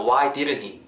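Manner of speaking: "didn't he" run together, t dropped; linked sounds. Shown as a demonstration. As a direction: link "didn't" straight into "he". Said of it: "다 이렇게 음이 연결되면서".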